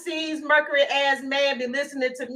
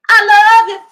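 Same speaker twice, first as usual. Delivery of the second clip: mock lovesick plea; 8 semitones higher, 14 dB louder than usual. Mock-voicing Michael's plea.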